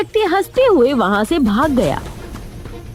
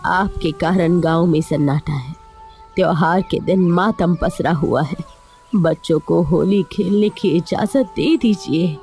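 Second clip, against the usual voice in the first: lightly voiced wife, lower pitch; pleading wife; 7 semitones lower than usual. Wife asks headman to let children play Holi, pleading.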